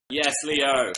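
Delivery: excited re-enacted celebration; enthusiastic cheer. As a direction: cheer on your winner, re-enacted. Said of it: "I was very enthusiastic about the Oscars".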